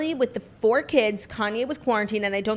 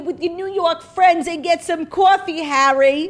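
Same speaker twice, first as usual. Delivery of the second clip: higher, louder sniping granny; mock old Queen; 8 semitones higher, 7 dB louder than usual. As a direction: shoo Harry off to his New York friends. Queen scolding Harry.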